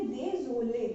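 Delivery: désolé drawn out slowly with crisp é sounds; teacher repeating désolé slowly for learners; slow French désolé. Shown as a demonstration. Teacher drilling students on désolé, slow and clear. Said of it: "इस तरीके से pronunciation किया जाएगा".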